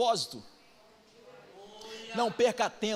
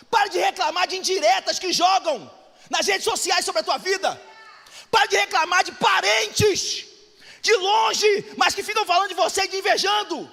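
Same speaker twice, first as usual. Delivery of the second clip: rising, loud preacher's cry; fiery preaching, louder each line; preaching at full force; 6 semitones higher, 4 dB louder than usual. Acted. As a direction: build the rebuke to a shout. Preacher builds to a shout.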